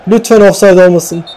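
high, desperate plea to God; praying it's not offside; anxious pleading. Real, not acted. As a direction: beg fate under your breath and up high.

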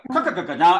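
ka ka ka ka na run together; quick drill. Shown as a demonstration. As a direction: fire the syllables off. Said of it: "try saying it really fast".

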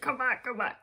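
pleading ex. Retold or imitated. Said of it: "They're like".

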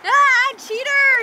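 loud slow mock outrage; playful outcry. Real, not acted. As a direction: call them cheaters, laughing. Animals moving away, playful call.

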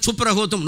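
సుప్రహోతం said as chupra-hotum; mock TV mispronunciation, chupra-hotum; garbled suprabhatam. Shown as a demonstration. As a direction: slur suprabhatam into చుప్రహోతం. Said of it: "నోరు మూసుకొని అర్థం అక్కడ".

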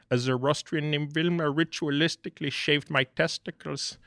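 quoting Austin Powers lightly in a mock British voice; Austin Powers line. Retelling the actor scene, lightly quoting Austin Powers.

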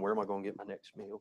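fast, fretful little bird voice dropping to a whisper; worried bird muttering to itself; worried sparrow. Pretend. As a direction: play the anxious sparrow hunting its next meal. Sparrow voiced worrying about food.

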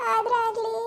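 sobbing through the word; tearful, catching voice; crying. Acted. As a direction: let a sob break it. Mother weeping over jailed daughter.

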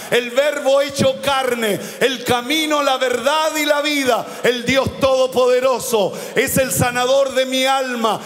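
a fervent preacher's crescendo of divine titles; preaching at full force. Acted. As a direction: proclaim each title of God to the congregation. Preacher lists titles of God.

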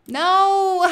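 high, loud playful cry of no; loud hammed-up no; mock wail. Real, not acted. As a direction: overplay the disappointment. Mock outrage at wrong colors.

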